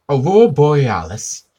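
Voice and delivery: high, loud disbelieving echo; incredulous repeat. Retold or imitated.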